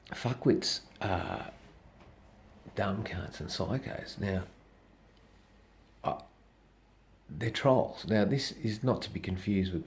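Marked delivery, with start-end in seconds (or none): 0.1-4.2 slow emphatic verdict. Real, not acted. Summing up the trolls.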